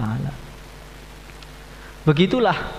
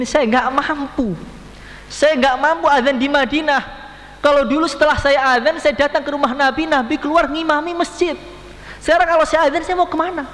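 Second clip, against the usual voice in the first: Bilal's grief; 12 semitones higher than usual. Acted. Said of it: "Sayyidina Bilal mengatakan". (Bilal menolak azan sambil meratap, makin tinggi dan keras)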